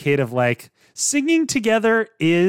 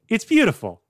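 higher, hammed-up movie-line swoon; Ryan's sighing line; 6 semitones higher than usual. Quoting Ryan after the musical phrase, hammed-up sighing admiration. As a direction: act out a smitten sigh of admiration. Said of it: "Ryan sighs and goes".

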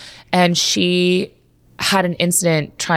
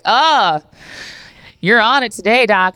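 high, loud teasing cheer; cheering patients; 6 semitones higher, 3 dB louder, slower than usual. Retold or imitated. Waiting patients cheering the jogging doctor, loud and high. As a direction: hype her up like a fan.

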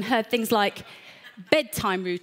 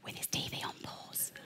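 whispering; 18 dB quieter than usual. Acted. Whisper, God waiting quietly.

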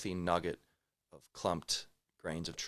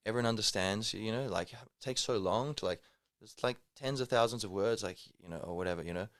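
higher, louder quote of a friend; Brazilian friend voice; 4 semitones higher, 3 dB louder than usual. Retold or imitated. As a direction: voice the puzzled friend. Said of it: "he's like".

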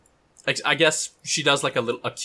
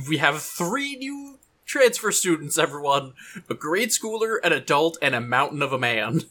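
cheery teacher announcement; 5 semitones higher, 3 dB louder than usual. Retold or imitated.

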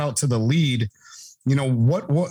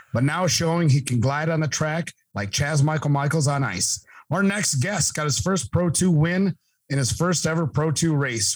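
hype-man ring announcer intro; 3 semitones higher than usual. Acted. Podcast host's hyped guest introduction.

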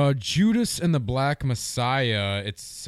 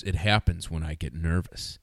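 Forrest Gump; 6 semitones lower than usual. Retold or imitated. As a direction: lightly mimic an odd inflection, pitched down. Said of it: "guy who talked like Forrest Gump".

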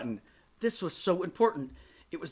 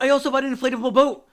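loud, fast, frantic outburst; blurting out; 7 semitones higher, 8 dB louder than usual. Acted. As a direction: blurt it all out in a rush, much louder. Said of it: "Madeline blurts out".

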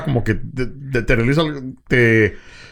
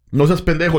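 friendly insult; 3 semitones higher than usual. Shown as a demonstration. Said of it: "estamos en confianza".

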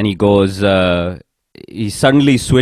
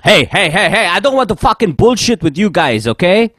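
higher mock rant, lightly put on; imitating angry boss; 6 semitones higher than usual. Manager fed up with the team on a call, higher mock rant. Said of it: "loses his mind on the conference call".

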